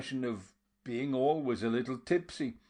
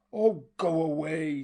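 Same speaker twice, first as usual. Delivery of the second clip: without anger; 5 semitones higher, 5 dB louder than usual. A narrator's reading. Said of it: "but without any show of anger".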